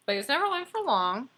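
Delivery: NEVER punched high and loud, quick; read-aloud stress on never; emphasis on never. Shown as a demonstration. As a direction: hit never hard for the children. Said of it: "you put emphasis on it".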